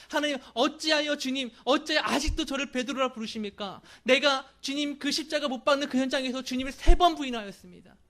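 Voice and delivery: loud, high, anguished protest to the Lord; pleading protest. Pretend. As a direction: cry out at God, demanding why. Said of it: "라고 따졌을지도 몰라요".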